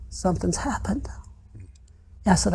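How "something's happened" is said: breathy whisper, much softer; confiding a dark hunch in a whisper; whispered dread. Retold or imitated. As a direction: barely voice it, afraid to say it aloud. Telling his wife his fear.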